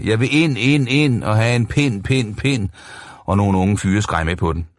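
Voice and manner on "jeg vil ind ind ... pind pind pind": hysterisk råb. Acted. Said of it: "En høj, hysterisk trans i rød kjole råbte".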